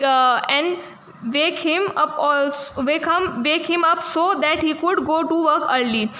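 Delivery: put-on slow, careful reading aloud for young pupils; slow story reading. A narrator's reading. Teacher reading the English story to her class, slow and careful. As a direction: read each word out slowly for the class.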